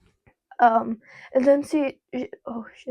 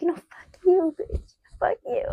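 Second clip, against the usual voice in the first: retold angry outburst; 6 semitones higher than usual.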